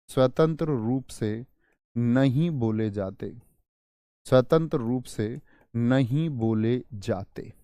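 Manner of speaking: slow teacher dictating in repeated chunks; measured, drawn-out words for note-takers; dictation. Acted. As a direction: dictate slowly, phrase by phrase. Dictates a definition.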